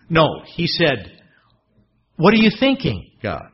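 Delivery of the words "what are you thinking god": respectful protest. Acted.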